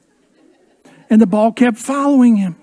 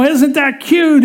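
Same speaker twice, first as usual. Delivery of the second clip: mock cooing parents; 5 semitones higher, slower than usual. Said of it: "Parents are starting to chuckle and go".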